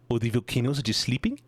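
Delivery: Kiwi accent, ending on a question; New Zealand accent. Shown as a demonstration. Streamer trying a Kiwi line, accent rising at the end. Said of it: "stereotypical New Zealander accent".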